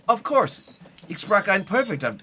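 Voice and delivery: high, loud, over-eager boast; hammed-up eager answer; mock confidence. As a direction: act breezily sure of your German. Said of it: "And then being like".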